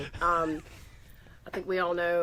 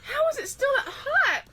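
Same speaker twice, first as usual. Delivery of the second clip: high, loud laugh-crying; laughing through pain; 11 semitones higher, 7 dB louder, slower than usual. Real, not acted. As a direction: squeal through the burn. Burning mouth, crying laugh.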